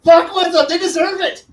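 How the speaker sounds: high, loud laughing shout; gleeful laughing egging on. Real, not acted. Player laughing at the game master, shouting to mess with them. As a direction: cheer the game master on with glee.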